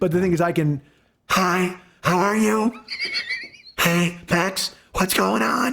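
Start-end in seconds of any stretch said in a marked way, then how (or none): 1.3-5.7 high, very slow, croaky goose-call throat croak. Showing the odd throat noise while talking: goose call throat noise voice. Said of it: "it just sounds like it's from the bowels of hell".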